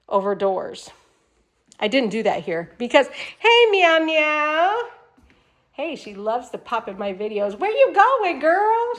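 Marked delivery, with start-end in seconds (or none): 3.4-8.9 high, slow pet voice for the cat; sing-song calling to a pet; cat talk. Real, not acted. Talking to her cat.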